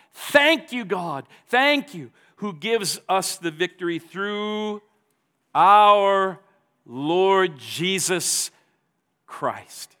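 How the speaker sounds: high, loud cries of thanks; joyful worship. Acted. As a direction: cry out your thanks to God. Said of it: "Paul breaks into a spontaneous moment of worship".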